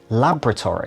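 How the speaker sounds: LABORATORY as "LAB-ruh-tory"; first syllable LAB stressed in LABORATORY; British pronunciation. Shown as a demonstration. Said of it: "to hear the Brits say".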